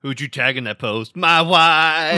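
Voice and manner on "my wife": laughing. Real, not acted. Joking answer.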